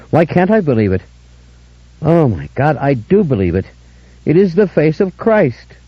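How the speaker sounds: overwhelmed weeping awe. Acted.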